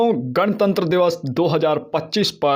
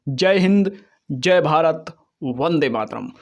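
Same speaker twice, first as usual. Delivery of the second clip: booming rousing general speech. Acted. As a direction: call it out with pride. Rousing closing slogans.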